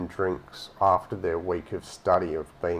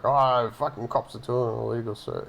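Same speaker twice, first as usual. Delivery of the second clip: panicked mate; 3 semitones higher than usual. Retold or imitated. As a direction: sell it like a mildly frantic friend on the phone. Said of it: "It's like".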